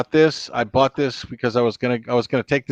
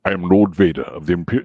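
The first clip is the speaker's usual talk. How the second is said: deep, low villain introduction; low, imposing actor impression; James Earl Jones; 7 semitones lower than usual. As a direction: intone it like a dark lord. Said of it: "James Earl Jones".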